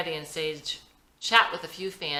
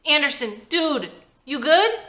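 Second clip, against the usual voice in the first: high, anxious call to a hurt friend; urgent and shaken, checking on him; worried teammate; 9 semitones higher, 10 dB louder than usual. Acted. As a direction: teammate calling out to his injured friend, anxious. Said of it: "Blake gets emotional".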